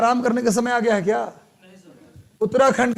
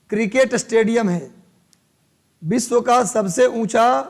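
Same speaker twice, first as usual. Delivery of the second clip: measured dictation in separate chunks; classroom dictation. Real, not acted. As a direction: dictate it phrase by phrase for note-takers. Dictates the note for students.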